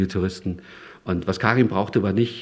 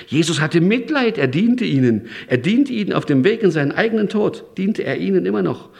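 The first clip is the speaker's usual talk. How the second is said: ordinary talk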